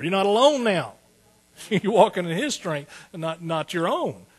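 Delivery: high, loud revival preaching, building to hallelujah; fiery preaching. Acted. Preacher rousing the congregation, full-force preaching.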